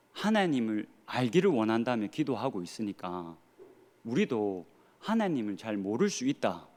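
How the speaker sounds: normal talking voice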